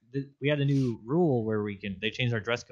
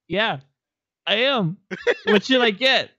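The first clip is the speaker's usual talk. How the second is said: higher, louder eager reply, laughing; eager stranger; 10 semitones higher, 7 dB louder than usual. Retold or imitated. Stranger answering the bacon joke, eager and laughing. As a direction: play along eagerly. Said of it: "he goes".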